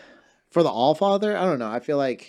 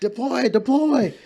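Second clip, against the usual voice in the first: high, loud battle command; commanding alarm voice; 7 dB louder, slower than usual. Pretend. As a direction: call out orders like an alarm. Voicing the brain deploying sneezes.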